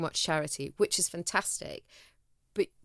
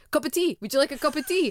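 strangers offering tea; 8 semitones higher, 5 dB louder than usual. Retold or imitated. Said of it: "kept stopping me in the street going".

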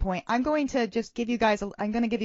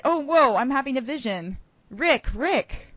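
mystic vision voice; 5 semitones higher than usual. Acted. Prophetess having a vision.

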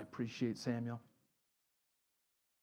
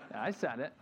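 chuckling through the line; laughing admission. Real, not acted. Pastor admitting his outburst, laughing. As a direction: own it with a sheepish laugh. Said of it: "I did it".

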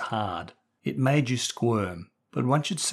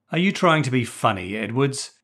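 barking; 3 semitones higher, 4 dB louder than usual. Acted. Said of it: "Hamilton barked".

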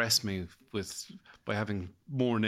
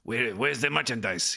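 drug lord voice. Pretend. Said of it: "drug lord who's like".

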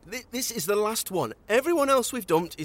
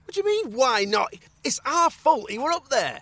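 incredulous; 4 semitones higher, 3 dB louder than usual. Acted. Incredulous retort.

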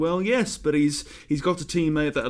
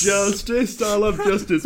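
loud, raised celebratory cry; jubilant; 6 semitones higher, 6 dB louder, slower than usual. Real, not acted. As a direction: crow over the victory. Celebrates winning the coin toss.

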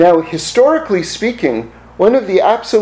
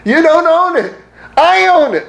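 voice of God; 8 semitones higher than usual. Retold or imitated.

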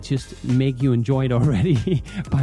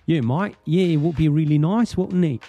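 hammed-up, higher-pitched British accent; 5 semitones higher than usual. Shown as a demonstration. Host having fun with accents on his first episode, mock British accent. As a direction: play up a matey British accent. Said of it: "speak more British in general".

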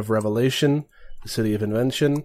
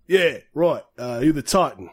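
lightly voiced gruff-mannered reply, a little higher at first; Vinny voice; 3 semitones higher than usual. Annoyed boss answers the Titan who sat down, lightly put-on voice. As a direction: play a hint of an annoyed mob boss. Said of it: "you do a very good, uh, Vinny voice".

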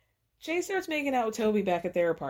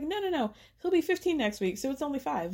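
high-pitched imitation of brushing worries aside; mock reassurance; 6 semitones higher than usual. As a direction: pitch it high, playing down the problem. Acts him minimizing the five years.

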